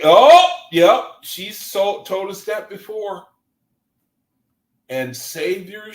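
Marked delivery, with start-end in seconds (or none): 0.0-3.3 light voiced reaction. Voicing her response.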